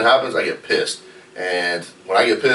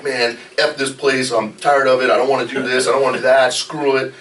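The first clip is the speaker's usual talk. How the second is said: mock venting; 4 semitones higher than usual. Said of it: "I'm fired up and I'm pissed".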